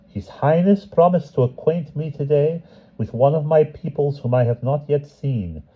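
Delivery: a hint of royal curiosity; gracious empress. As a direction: empress greeting the Cossacks. The empress speaking.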